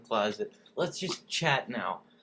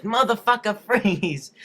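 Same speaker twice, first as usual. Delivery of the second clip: raised, high-pitched order; acted police command; 7 semitones higher, 4 dB louder, slower than usual. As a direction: play a cop bursting in, loud. Acted police bust in the story.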